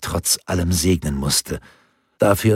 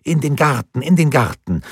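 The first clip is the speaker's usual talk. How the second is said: put-on high, louder triumphant child chant; triumphant call; 8 semitones higher, 4 dB louder than usual. Boy triumphantly chants to grandfather about the garden, high excited call. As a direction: crow it out like a victory. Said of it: "rief er triumphierend".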